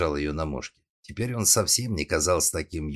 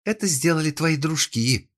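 high, loud spitting fury; furious accusation; 11 semitones higher, 5 dB louder than usual. A narrator's reading. Girl accuses her captor over her friend, furious. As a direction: hurl the blame at him. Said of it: "брызгала слюной Лиза".

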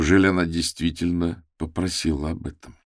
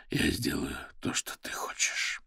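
whispering; 2 semitones lower, 10 dB quieter than usual. A narrator's reading. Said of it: "прошептал Никас между поцелуями".

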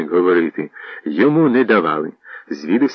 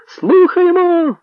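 high, slow, cutting call from the crowd; sharp voice; 4 dB louder, much slower than usual. Acted. A voice in the crowd answers the herald, cutting sharply. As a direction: slice through the silence with one word. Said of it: "різкий голос розітнув тишу".

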